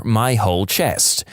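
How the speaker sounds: usual speaking voice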